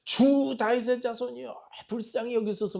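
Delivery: high, loud mock-desperate plea; acted wailing cry. Mother pleading to Jesus for her possessed daughter, acted wailing cry. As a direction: cry out wildly, imitating a mother begging for mercy. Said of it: "막 울부짖어요".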